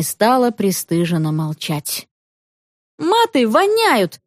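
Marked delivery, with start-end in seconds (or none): 3.0-4.2 put-on high, slow, whining exclamation of a girl; high drawn-out girlish protest; child's outcry. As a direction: wail it out like a fed-up schoolgirl. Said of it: "воскликнула Света".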